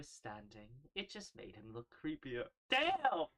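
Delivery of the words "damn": surprised. Real, not acted. Reacting loudly to creepy character.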